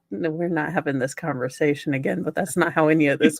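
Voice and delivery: low, fast and weary, lightly played; a tired husband shutting it down, hinted; lightly voiced husband. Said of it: "look at me like".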